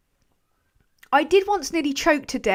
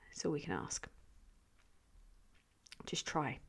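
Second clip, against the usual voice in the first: gentle consolation; 6 semitones lower, 20 dB quieter than usual. Acted. Consoling tone continues.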